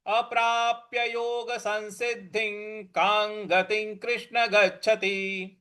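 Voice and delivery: slow, measured recital for all to follow; group recitation lead. Shown as a demonstration. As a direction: lead the class through the verse. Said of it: "सभी लोग एक साथ बोलेंगे".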